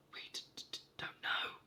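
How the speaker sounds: stammered in dismay, whispered; stammering. Acted. Brownies stammering before the angry King, frightened stammer. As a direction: trip over the first word in fear. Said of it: "stammered the brownies in dismay".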